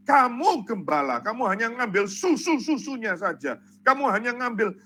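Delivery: acted divine scolding, mildly forceful; stern rebuke. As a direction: reprove the shepherds as God, firmly. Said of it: "Tuhan menegur".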